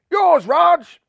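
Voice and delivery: high, loud urgent yell; shouting. A narrator's reading. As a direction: call the catch out. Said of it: "shouted Buntham".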